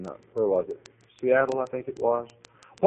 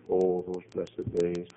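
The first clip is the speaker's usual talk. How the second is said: wistful sigh; 2 semitones lower, slower than usual. Retold or imitated. Receptionist remembers blessed days, slow and wistful. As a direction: sigh over the past. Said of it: "she begins to think".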